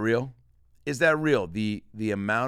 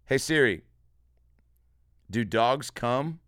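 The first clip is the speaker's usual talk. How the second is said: slow, over-enunciated voice command; slow clear command; 4 semitones higher, 5 dB louder, slower than usual. Shown as a demonstration. Comedian slowly dictating a question to Siri, over-enunciated. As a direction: spell it out slowly so the phone understands. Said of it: "here we go. Ready?".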